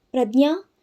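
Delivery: understated alarmed call, rising at the end. Acted. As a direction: call her name with mild fear. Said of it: "ಯಾರದ್ದೋ ಗಾಬರಿ ತುಂಬಿದ ಕೂಗು". (ಸ್ವಲ್ಪ ಗಾಬರಿಯ ಕೂಗು)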